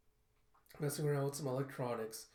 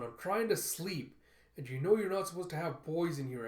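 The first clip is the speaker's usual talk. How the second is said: put-on raised, whiny scolding from a woken kid; peeved, pitched-up telling-off; annoyed complaint; 3 semitones higher, 3 dB louder than usual. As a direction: complain at them for waking you. Woken orphan scolds Effie.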